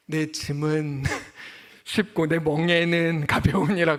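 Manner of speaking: slow, solemn voice of God, laughing; God answers the tired believer, slow mock solemn. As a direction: intone it slowly like a pronouncement. God's voice quoted, amused.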